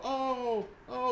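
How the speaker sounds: hammed-up high yelps of fake fright; mocking bad actors. Bad actors attacked by a digital monkey, mocked with high fake yelps. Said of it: "they go".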